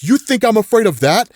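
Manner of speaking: defiant retort, held somewhat in check; acted defiance. Johnny facing billions of bugs, acted defiance. Hero defies the oncoming swarm.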